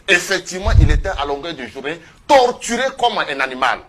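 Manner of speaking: plus fort, la voix qui s'échauffe; indignation qui monte. Real, not acted. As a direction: laisser monter la colère sur la torture. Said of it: "vous êtes sur un plateau de télévision". (avec indignation, voix plus forte)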